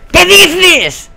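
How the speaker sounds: very high, loud yell of disbelief; real shocked gamer scream; outraged shriek. Real, not acted. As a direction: screech the question, incredulous.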